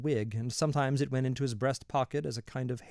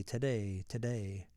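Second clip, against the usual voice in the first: each today softer and lower, fading away; fading repetition; 3 semitones lower, 6 dB quieter, slower than usual. A narrator's reading. He sits signing fans, dreading the fight today, fading away. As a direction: let the word today die out.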